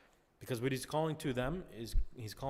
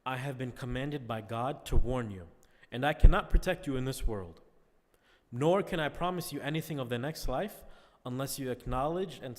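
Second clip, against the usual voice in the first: a louder, lightly voiced public warning to the tribes; proclaimed warning; 6 dB louder than usual. Teacher retelling the Prophet warning the tribes, lightly proclaimed. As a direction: project it like a mild announcement from a hilltop. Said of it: "and he says".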